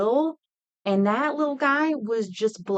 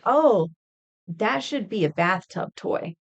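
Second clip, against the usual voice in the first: mock innocent suggestion; 3 dB louder, slower than usual. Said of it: "I would jokingly ... say".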